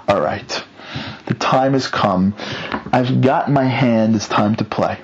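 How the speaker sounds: mock-solemn villain declaration; retold villain's resolve. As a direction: announce the plot with measured weight. Villain announces his murder plan.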